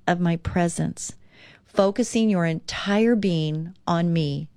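calm devotional read-aloud. Acted. Reads Jesus's words from devotional.

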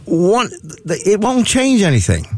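high goofy hayseed voice; Mortimer Snerd voice. Pretend. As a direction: play the dopey yokel puppet. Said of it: "Oh, Mortimer Snerd".

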